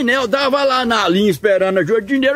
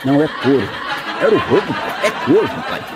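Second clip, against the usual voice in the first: bickering through laughter; laughing bicker; 7 semitones lower than usual. Acted. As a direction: argue back and forth with a laugh. (discutindo rindo)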